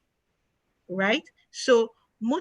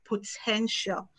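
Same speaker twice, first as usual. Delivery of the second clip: "potential" drawn out slowly on its own; stress on POTENTIAL; 4 dB quieter, slower than usual. Real, not acted. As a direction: say "potential" slowly and deliberately, set apart. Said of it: "I stress the word".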